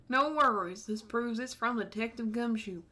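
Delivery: a hint of a Southern cop teasing; Tennessee accent. Marshall teasing the detective, light Tennessee accent. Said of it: "I get to do that accent".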